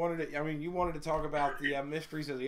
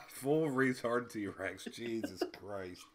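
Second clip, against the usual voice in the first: mock disbelief; 3 semitones lower, much slower than usual. Real, not acted.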